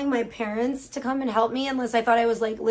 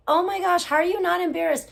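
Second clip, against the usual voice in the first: incredulous; 5 semitones higher than usual. Retold or imitated. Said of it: "And I was like".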